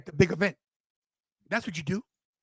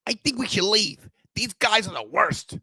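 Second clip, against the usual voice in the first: Smart Tony voice; 3 dB quieter than usual. Retold or imitated. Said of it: "Let me ask Smart Tony".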